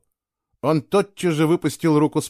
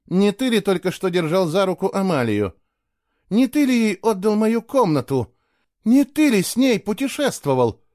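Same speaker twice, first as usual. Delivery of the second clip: rising, louder accusations one after another; jealous woman accusing her lover, furious and louder; 8 semitones higher, 4 dB louder than usual. A narrator's reading. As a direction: build the fury with each question. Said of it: "Яростно сверкнула глазами Кейла".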